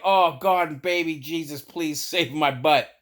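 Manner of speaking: mock desperate prayer; hammed-up pleading; desperate plea. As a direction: beg heaven for rescue, slowing at the end. Desperate comic prayer on toilet.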